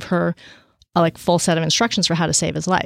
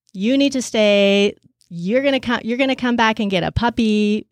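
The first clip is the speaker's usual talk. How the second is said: coaxing the son; 4 semitones higher than usual. Retold or imitated. Urging son to stay alive.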